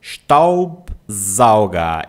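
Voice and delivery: STAUBSAUGER slow and loud, "shtaub-zauga"; S sounds demonstrated. Shown as a demonstration. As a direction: split Staubsauger, SH first, buzzing Z in sauger. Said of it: "E a letra S antes de uma vogal". (Staubsauger devagar e forte, "chtaub-záuga")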